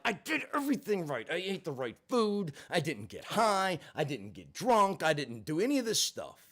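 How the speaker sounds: venting outrage at the unfairness; mild furious rant. Retold or imitated. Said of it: "And I'm furious".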